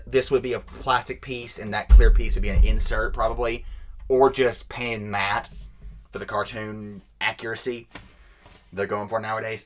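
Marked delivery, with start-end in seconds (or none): 4.1-9.7 out of breath. Real, not acted. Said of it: "I'm getting out of breath".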